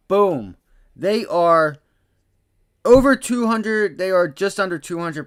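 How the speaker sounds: loud, high, triumphant boom; excited shout. Real, not acted. Trader celebrating to viewers as calls soar, loud and excited. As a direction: slam the number home.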